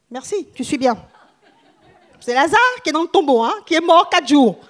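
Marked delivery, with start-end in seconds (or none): 2.2-4.6 excited. Real, not acted. Excited aside to congregation.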